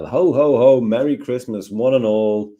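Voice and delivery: lightly acted Christmas greeting; a hint of a festive announcer. Shown as a demonstration. Example Christmas greeting to record.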